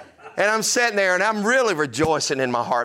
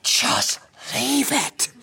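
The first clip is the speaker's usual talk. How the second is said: exasperated dad; 8 semitones higher, much slower than usual. Retold or imitated. Pastor answers son in meeting.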